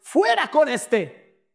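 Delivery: a crowd's cry, exclaimed slowly. Shown as a demonstration. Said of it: "Qué dice la Reina Valera en exclamación".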